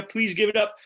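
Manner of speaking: loud, slow emcee build-up; big drawn-out announcer call; announcer intro. Real, not acted. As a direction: hype the next comic to the crowd. Host introduces next comedian.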